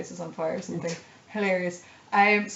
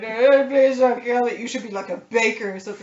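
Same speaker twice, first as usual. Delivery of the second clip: pleading father voice; 4 semitones higher, 7 dB louder than usual. Retold or imitated. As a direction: beg gently like a worried father. Playing a gentle father figure.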